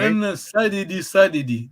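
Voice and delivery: "sadidi" twice, both with "sa" stressed; same first-syllable stress. Shown as a demonstration. Teacher showing no change, "sadidi" stressed on "sa". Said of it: "No change".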